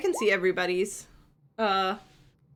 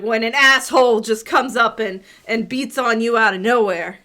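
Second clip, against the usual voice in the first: half-orc woman voice; 5 dB louder than usual. Acted. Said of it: "and she's like".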